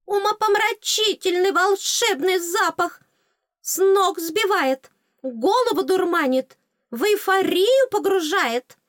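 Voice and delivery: high, loud, stretched-out raving; rapturous fairy. Acted. Fairy praises the magic scent, high rapture. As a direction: swoon over it in a tiny squeaky voice.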